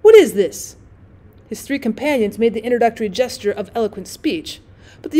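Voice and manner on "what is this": loud, puzzled question; baffled, demanding an answer; mystified. Acted. Drummer puzzled by the sudden silence, loud and baffled. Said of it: "said he, mystified".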